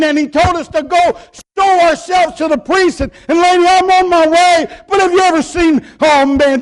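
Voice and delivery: excited testimony. Retold or imitated. Healed leper telling lady.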